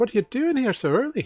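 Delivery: small, very high-pitched feminine voice. The narrator voices Karn, a halfling friend at the door at night: small feminine voice. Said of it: "a small feminine voice".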